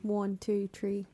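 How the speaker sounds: counting in an Irish accent. Shown as a demonstration. Showing friends an Irish accent, demo count in Irish. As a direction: say the numbers with Irish sounds. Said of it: "I can do a good Irish accent".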